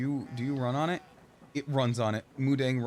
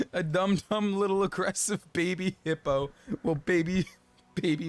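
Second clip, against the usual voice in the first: laughing gush; 7 semitones higher than usual. Real, not acted. Gushing over Mudang, laughing.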